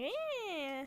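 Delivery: imitated cat meow. Owner shows how cat meows constantly, imitated meow. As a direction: mimic a vocal cat's long meow. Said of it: "He just meows constantly".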